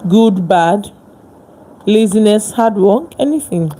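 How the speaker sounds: fired-up motivational speech. Real, not acted. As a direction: push it out loud like a preacher. Passionate motivational build.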